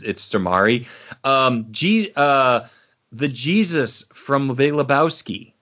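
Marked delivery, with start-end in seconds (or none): 0.0-0.9 "Stormare" said stor-MAR-ee; Stormare ending in -ee. Shown as a demonstration. Correcting the common version of the name, "Stormare" as stor-MAR-ee. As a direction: give "Stormare" three syllables, ending in ee. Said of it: "or people say".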